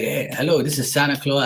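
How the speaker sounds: put-on a light Bermudian Santa accent on the phone; prank-calling friends as Santa; a hint of Bermudian accent, playful. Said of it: "And I used to do his voice".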